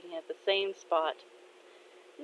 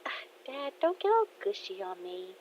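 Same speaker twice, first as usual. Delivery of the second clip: embarrassed protest; 7 dB quieter than usual. Acted. Daughter embarrassed by gushy father.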